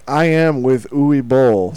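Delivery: slow, loud, deliberate voice; Uwe Boll impression. Imitating director on the phone.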